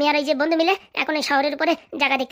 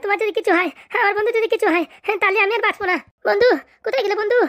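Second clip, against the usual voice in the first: hammed-up lament; 4 semitones higher than usual. Friend laments over the missing friend.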